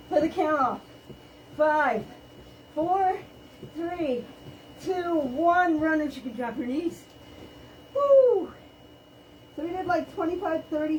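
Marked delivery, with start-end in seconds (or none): 0.1-6.0 aerobics instructor. Acted. Calls final countdown. 7.9-8.5 loud, high victory whoop; excited woo. Real, not acted. Cheer after finishing the sprint.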